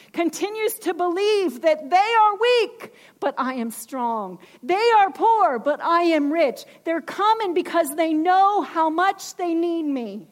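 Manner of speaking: preaching fervor. Acted. Preacher voicing Jesus' words.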